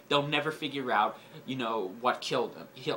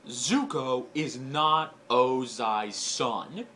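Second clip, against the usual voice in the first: slow, weighty reveal with a rise on not; dramatic reveal; 3 dB louder, much slower than usual. Acted. Telling viewers the spoiler twist, slow dramatic reveal. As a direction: drag out the big spoiler for suspense. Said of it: "Okay, are you ready?".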